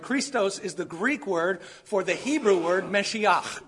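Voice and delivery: "Christos" and "Meshiach" said slowly, with a throaty ch in "Meshiach"; slow, careful read of "Meshiach"; careful Hebrew pronunciation. Shown as a demonstration. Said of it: "Meshiach is the way you say anointed".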